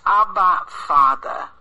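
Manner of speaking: crying out. Acted. The Spirit in our hearts cries out loud to God. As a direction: call it out like a child to its father. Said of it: "that cries".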